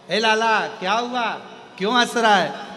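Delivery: put-on worried mom asking why the baby laughs; a mother's anxious coaxing call; fussing mother. Mother fussing over laughing child.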